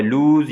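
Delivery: लूज with ऊ lengthened; long vowel. Shown as a demonstration. Teacher explaining the long sound, लूज lengthened. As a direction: hold the vowel in लूज, ending on z. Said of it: "हमने लंबी की है sound को".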